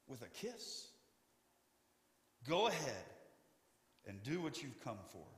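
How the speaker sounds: gentle rebuke to a betraying friend; tender. Acted. Jesus to Judas, repeated.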